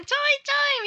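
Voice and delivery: high, playful gag-style "ちょいちょい"; comic quip. Retold or imitated. Women in sinking car quipping, high and playful. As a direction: toss it off like a comedy bit. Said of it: "ギャグみたいな".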